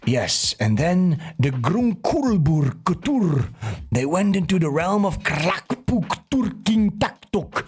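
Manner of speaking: slow mock-grand storyteller voice; mock epic narrator. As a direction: read nonsense names like old lore. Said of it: "it's stuff like this, like".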